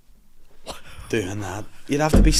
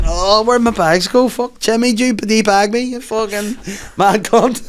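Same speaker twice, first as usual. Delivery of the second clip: high, halting robot voice; 9 semitones higher than usual. Retold or imitated. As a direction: imitate a speech-synthesizer robot voice. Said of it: "give him the robot voice".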